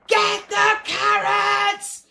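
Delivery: slow, loud drawn-out call; lion's loud order. Acted. The lion calls loudly to the rabbits to grab the carrots.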